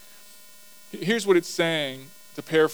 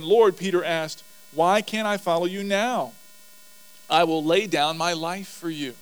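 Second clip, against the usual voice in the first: earnest Peter; 3 semitones higher, 6 dB louder than usual. Acted. Peter protests he'll follow.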